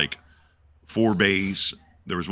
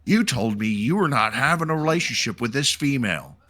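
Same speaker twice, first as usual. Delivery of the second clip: higher accusing commander voice; lightly voiced stern commander; 5 semitones higher than usual. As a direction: confront the soldier sternly. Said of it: "the commander's like".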